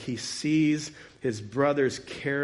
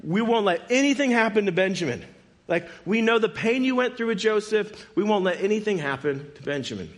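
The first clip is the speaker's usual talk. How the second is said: retold urgent promise, pitched up; earnest assurance; 7 semitones higher, 3 dB louder than usual. Brothers promising their dad Benjamin will be safe, earnest assurance. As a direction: insist higher, as if assuring a worried dad. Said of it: "trying to assure their dad".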